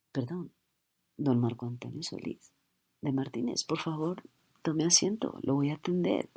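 hushed, sweetly polite; softened cashier voice. Acted. Starstruck cashier softly greeting her idol. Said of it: "Así cambia".

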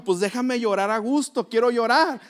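imitating crying wife.

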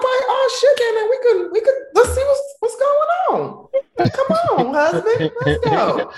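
high, laughing thrilled squeal; giddy excitement. Retold or imitated. Woman thrilled he wants something serious, high giddy squeal. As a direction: burst out, suddenly eager, with laughter. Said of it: "And I'm like".

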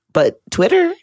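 ordinary talk, nothing marked

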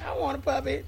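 mock begging. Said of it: "you're like".

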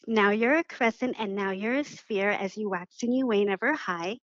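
measured poem recital, last line fading to a whisper; poem reading. Acted. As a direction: read it like a gentle rhyme for children. Reads her moon poem aloud.

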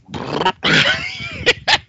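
high strained groan; pained heartburn groan. Retold or imitated. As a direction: cry out from sudden heartburn. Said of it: "and then he goes".

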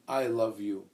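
"I" set apart and leaned on; emphatic "I" before love you; stress on I. Shown as a demonstration. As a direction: put the weight on "I", not "you". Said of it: "they emphasize the word "I".

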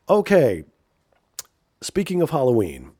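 ordinary talk

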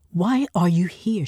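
mildly sharp, pressed question; hissed. Acted. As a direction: press him, irritated. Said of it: "she hissed".

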